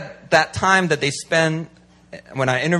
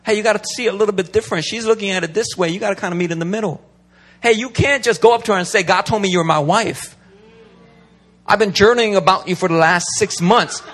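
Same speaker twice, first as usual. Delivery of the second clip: fatherly pastoral voice; 4 semitones higher than usual. Retold or imitated. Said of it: "You need a pastoral voice to be like".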